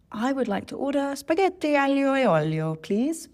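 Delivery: high, showy Italian-accented restaurant order; hammed-up Italian accent, pitched well up; exaggerated Italian accent. Shown as a demonstration. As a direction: order with an overdone Italian lilt. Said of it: "that overly exaggerated accent".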